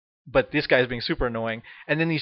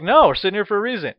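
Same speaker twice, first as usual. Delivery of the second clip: firm refusal; 6 semitones higher, 5 dB louder, faster than usual. Retold or imitated. Refusing the guy.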